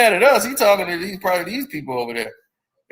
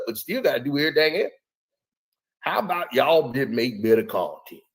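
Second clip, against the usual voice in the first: lower, mumbly Shannon Sharpe voice, like marbles in the mouth; lightly lowered Shannon Sharpe rant; Shannon Sharpe impression; 4 semitones lower than usual. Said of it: "Man, you got that voice down too?".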